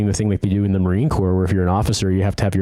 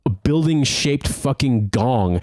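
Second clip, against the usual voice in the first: imagined rant; 5 semitones higher, slower than usual. Retold or imitated. Venting what he really meant to management.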